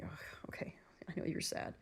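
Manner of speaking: whispered comfort, barely voiced; soft whisper. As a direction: hush it gently like soothing someone. Comforting crying boyfriend, whispered.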